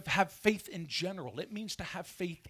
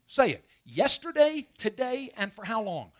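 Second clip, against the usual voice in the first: calling out to the congregation, much louder; 3 semitones higher, 8 dB louder than usual. Real, not acted. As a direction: belt it out so the church joins in. Pastor prompts congregation to answer.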